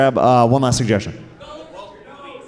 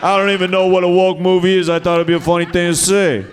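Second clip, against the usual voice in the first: mock flustered heckler; 4 semitones higher than usual. Voicing the audience member's reply.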